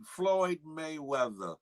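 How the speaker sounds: slow, savored "Floyd Mayweather" at normal pitch; drawn-out name. Real, not acted. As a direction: stretch out "Floyd Mayweather" slowly. Hyping a viewer's name, first take.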